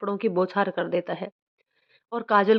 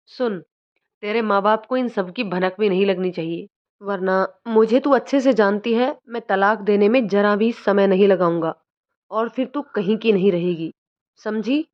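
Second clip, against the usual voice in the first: threatening. Acted. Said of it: "को धमकाते हुए".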